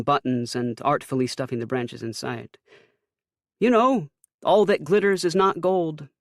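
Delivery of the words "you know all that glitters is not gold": high, loud mother's voice; Ma's voice. A narrator's reading. Mother describing her glitter plan to her son. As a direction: gush about the craft plan as Mom.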